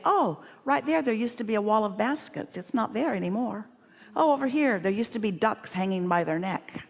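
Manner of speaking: lightly acted guest showing she knows the place; cleverly chatty. Esther to her escort, showing she knows her way, cleverly chatty. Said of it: "she thinks she's so clever".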